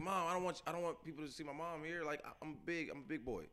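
lightly voiced kid insisting he's grown up; a touch of a kid embarrassed by mom; embarrassed teen.

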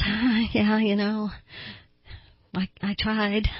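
lightly acted sheepish excuse; halting, embarrassed mumble of someone imitating shame; mildly ashamed. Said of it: "hangs their head in shame and goes".

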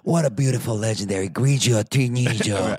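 slow, pretentious fake Italian; mock Italian accent. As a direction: draw out the car colour in showy Italian. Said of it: "all say".

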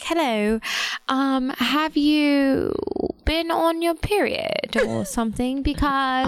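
slow, drawn-out mock British accent; posh-text-message British impression, slow; imitated British accent. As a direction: read it out in a put-on British accent. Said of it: "like, a British accent".

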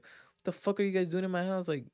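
lightly voiced angry woman; mock angry lady. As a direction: imitate an upset homeowner. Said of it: "she's like".

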